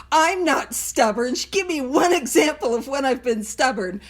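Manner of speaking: mock-indignant protest to her best friend. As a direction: dig in like a stubborn arguer. Retold argument with best friend.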